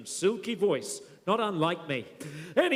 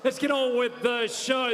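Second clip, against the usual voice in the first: MC shout; 3 semitones higher than usual. Real, not acted. MC calling the crowd to order.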